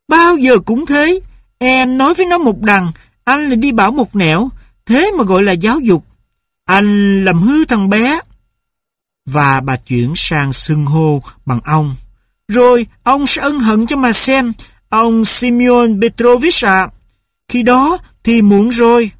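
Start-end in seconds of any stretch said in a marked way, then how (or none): 0.1-8.2 higher, angry nagging wife; a wife scolding her husband; scolding mother. A narrator's reading. Mother scolds father for spoiling the boy, angry and higher. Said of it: "Bà mẹ lúc này đã lại la lên". 12.5-19.1 higher, icy formal threat; a wife warning her husband; cold warning. A narrator's reading. Mother warns Simeon Petrovich coldly, higher.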